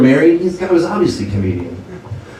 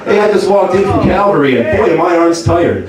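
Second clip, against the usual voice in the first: higher, upbeat club-comic patter; stand-up comic Jesus; 4 semitones higher than usual. Retold or imitated. Jesus on the cross opening his comedy set. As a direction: work the room like a cheesy headliner. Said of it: "ultimate stand-up comedian".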